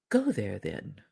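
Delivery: low voice of the magic fish. Acted. Fish answers.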